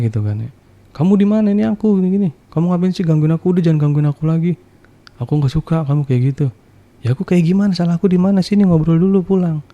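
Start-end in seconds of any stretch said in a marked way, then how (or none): 0.9-6.5 higher, annoyed telling-off. Retold or imitated. Wife on the phone telling her husband to stop bothering her, irritated. 7.1-9.6 higher, insistent plea; high pleading husband. Retold or imitated. Husband pleading on the phone for his wife to come home.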